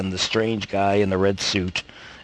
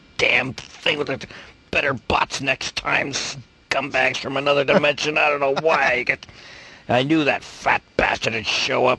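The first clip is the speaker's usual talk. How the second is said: grumbling curses through a tinny speaker; 5 semitones higher than usual. A distant voice through a little speaker in the snow, tinny muttered curses. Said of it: "a tinny little speaker is just muttering out little curses".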